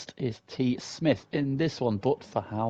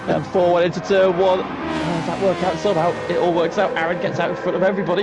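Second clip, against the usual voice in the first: excited high-energy race call; loud and rising with the chaos; motorsport commentator; 6 semitones higher, 7 dB louder than usual. Real, not acted. Live race commentary crash chaos.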